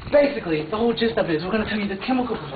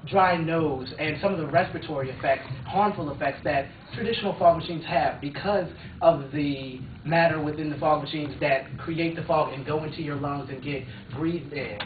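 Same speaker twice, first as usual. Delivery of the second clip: infomercial; 4 semitones lower, 6 dB quieter than usual. Acted. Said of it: "this infomercial".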